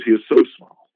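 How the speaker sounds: a prophet begging the Lord for pity; pleading prophet. Retold or imitated. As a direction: plead for little Jacob, leaning on so. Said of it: "And he says".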